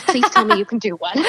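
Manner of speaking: retold plea with a laugh; mock pleading, breaking into laughter. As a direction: plead playfully and let the laugh out. Retells pleading email, amused.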